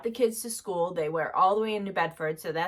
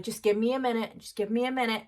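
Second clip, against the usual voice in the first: calm and reassuring; nice calm voice; 3 semitones higher, faster than usual. Retold or imitated. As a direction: soothe scared kids gently. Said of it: "said it in a nice, calm voice".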